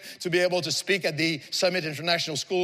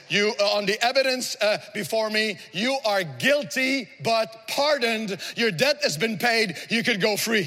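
measured pronouncement, slowing on the key words; judge's verdict; 4 semitones higher than usual. Retold or imitated. Preacher voicing the judge pardoning a guilty young woman, solemn pronouncement. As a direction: hand down a pardon deliberately, word by word. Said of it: "and he says".

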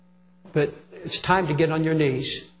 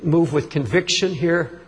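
solemn prayer. Real, not acted. Leads a prayer.

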